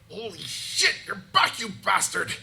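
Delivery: high, loud shout down from a tower; voice calling from above. Acted. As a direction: holler down in astonished greeting. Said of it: "you hear a voice from above".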